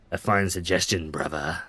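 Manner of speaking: lightly voiced character, low and measured; a hint of a low character voice. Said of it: "Is that how he talks?".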